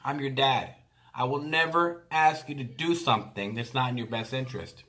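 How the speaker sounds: calm her gently, line by line; tender reassurance. Retold or imitated. Dad reassures his crying nine-year-old daughter, tender and calm.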